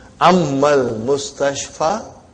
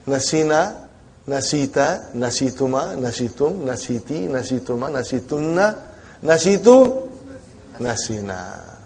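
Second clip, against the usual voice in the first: slow school dictation; 2 semitones lower, 4 dB quieter than usual. Shown as a demonstration. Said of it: "Got the idea?".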